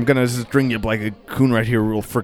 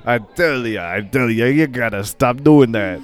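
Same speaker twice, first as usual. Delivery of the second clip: put-on Italian accent. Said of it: "It's me, Italian Eye".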